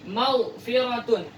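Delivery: "Maghfiratun" slow, no bounce on gh; slow Quranic reading; slow recitation. Shown as a demonstration. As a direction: recite it slowly. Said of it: "Jadi jangan dibaca maghfirah".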